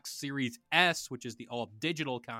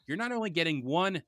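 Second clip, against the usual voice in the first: home shopping host. Acted. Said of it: "Yo, you could be a salesman".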